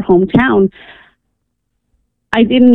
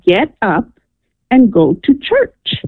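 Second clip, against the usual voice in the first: slow, deliberate command, rising on "go to church"; "get up and go to church" spaced out firmly; stronger voice retold; slower than usual. Caller retelling the voice that wakes her, stronger command. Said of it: "and it was stronger. It said".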